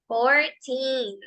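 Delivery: put-on Fourteen with the teen drawn out; long teen. Shown as a demonstration. Teacher models the word for the students, teen held long. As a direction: stretch the ee in Fourteen. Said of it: "Recordemos decirlo lento porque hay que alargar ese teen".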